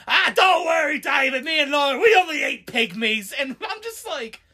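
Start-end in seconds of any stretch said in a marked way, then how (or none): 0.1-3.3 breezy Cockney reassurance, lightly voiced; a chirpy London geezer shrugging it off; British accent. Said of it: "He's like".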